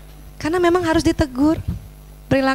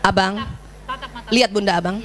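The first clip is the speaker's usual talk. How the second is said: gentle mother's call; 5 semitones lower, 4 dB quieter than usual. Shown as a demonstration. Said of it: "bicara sama laki-laki, nggak usah tatap matanya".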